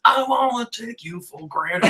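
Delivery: laughing lyric quote. Retold or imitated. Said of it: "the next line is".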